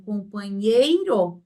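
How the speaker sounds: COMPANHEIRO slowed, leaning on the NHEI syllable; slowed digraph example. Shown as a demonstration. Teacher showing one sound in NH, slowed word. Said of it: "é um som apenas".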